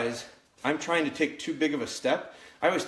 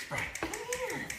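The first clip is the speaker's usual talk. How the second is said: much higher, sing-song come here; high puppy call; 9 dB quieter, slower than usual. Real, not acted. Trainer coaxing the puppy over, high sing-song call.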